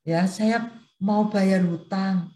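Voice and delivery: slow, strained voice of a sick friend; altered sick voice. Retold or imitated. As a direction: drag the words out like someone worn out by illness. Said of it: "Karena suaranya tuh beda banget". (suara teman yang sakit, pelan dan lemah)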